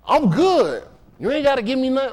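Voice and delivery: high, swaggering brush-off; imitating a neighborhood guy. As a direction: play him waving away help.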